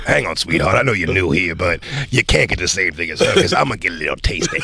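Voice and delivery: snooty waiter. Acted. Mock waiter voice in bit.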